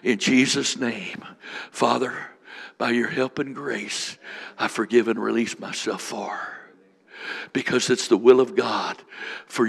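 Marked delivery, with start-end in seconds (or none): 0.0-6.4 leading a prayer. Shown as a demonstration. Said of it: "Come on".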